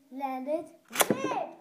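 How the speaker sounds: big rising shout on rip; launch shout. Real, not acted. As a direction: yell the launch command. Launch call at battle start.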